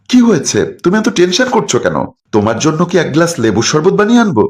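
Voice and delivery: high, sweet concerned wife; wife fussing over her tense husband; solicitous wife. Acted. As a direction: coo over him to seem innocent.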